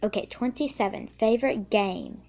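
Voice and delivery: a kid's playful attempt at an Australian accent; loosely faked Australian accent, chatty; put-on Australian accent. Answering fan questions on camera, in a faked Australian accent. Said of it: "now it says talk in Australian".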